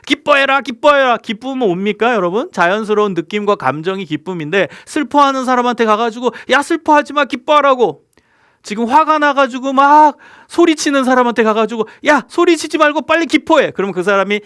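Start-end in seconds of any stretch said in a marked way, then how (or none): 0.1-1.2 loud, high pushy order to cheer up; nagging rejoice order; bossy command. Retold or imitated. Forcing a sad person to rejoice. 6.5-8.0 high, loud scold to stop being sad; pushy scolding. Retold or imitated. Scolding sad person to rejoice. 12.1-13.7 high, loud scold to stop being sad; pushy scolding. Retold or imitated. Ordering angry person to rejoice.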